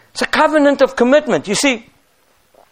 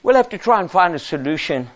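a hint of a soothing pushover, softer; mock soft excuse; 2 semitones lower than usual. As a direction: play the weak leader who makes excuses. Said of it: "He didn't say".

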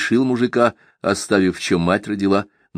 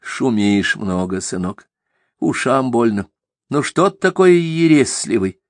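gentle admonishing; 5 semitones higher than usual. Acted. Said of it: "увещевал Аввакум".

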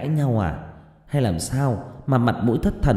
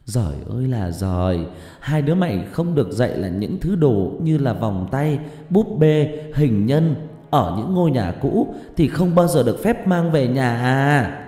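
loud, higher furious scolding; angry scolding; 6 semitones higher, 3 dB louder than usual. A narrator's reading. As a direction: berate them like a frightened, angry mother. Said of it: "hét ầm lên".

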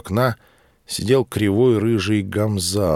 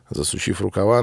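ordinary delivery, nothing marked

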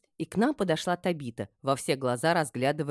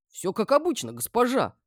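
higher, urgent protest; exclaiming; 9 semitones higher, 4 dB louder than usual. A narrator's reading. Guard assures mistress food was normal, exclaiming. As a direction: exclaim in defence. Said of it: "воскликнул охранник".

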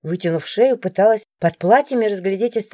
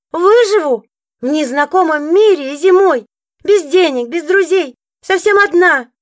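tearful outburst; 6 semitones higher, 4 dB louder than usual. A narrator's reading. Heroine breaks down tearfully.

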